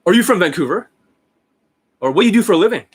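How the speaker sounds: loud, high, mocking pickup-artist voice; Julian Blanc. Shown as a demonstration. Coach mocking a rival's way of questioning women, loud and high. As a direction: fire off questions loudly in a stupid, exaggerated way. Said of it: "in a stupid Julian Blanc way".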